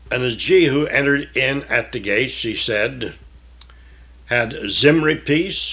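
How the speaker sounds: measured, solemn Bible reading; scripture reading. Acted. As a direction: read the King James text with weight.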